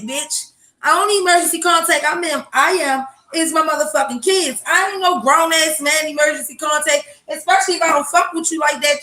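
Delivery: heated mock rant at the doctor; retold outraged rant. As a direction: tell the doctor off, fired up. Ranting retold reply to doctor.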